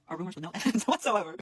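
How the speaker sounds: angry laugh breaking into the reading; laughing while mad. Real, not acted. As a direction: crack up in disbelief as you read. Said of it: "I'm sorry for laughing. I'm just mad".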